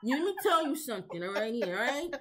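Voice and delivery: laughing, put-on Chicano cholo voice; Chicano gangster accent. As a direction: lay down the prison rules in a Chicano accent. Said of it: "You sound like the guy on".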